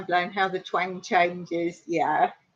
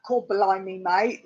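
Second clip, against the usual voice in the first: lightly imitated bad Cockney; hint of stagey Cockney; mock Cockney chimney sweep; 2 semitones lower than usual. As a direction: mimic a fake film Cockney. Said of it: "the chimney sweep from Mary Poppins".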